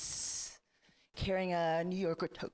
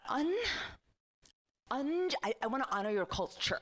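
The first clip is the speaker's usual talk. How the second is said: mock earnest white lady; 5 semitones higher than usual. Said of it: "the reaction's always the same".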